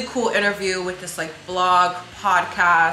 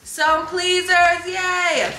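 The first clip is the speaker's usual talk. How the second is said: high, drawn-out thrilled cheer; excited squeal; 11 semitones higher, 4 dB louder, much slower than usual. Real, not acted. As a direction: squeal at the unboxing. Excited unboxing.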